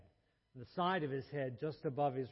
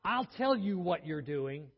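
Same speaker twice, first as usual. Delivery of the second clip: loud, higher, passionate declaration; said loudly; 3 semitones higher, 7 dB louder than usual. Retold or imitated. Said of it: "said loudly".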